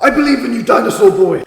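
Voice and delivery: high, loud cheering shout. Retold or imitated. Fan cheering Diego on while reading, shouting. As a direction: yell it like you're cheering from the stands.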